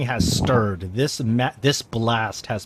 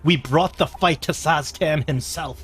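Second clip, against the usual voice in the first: triumphant rallying; 4 semitones higher than usual. Acted. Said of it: "She's like".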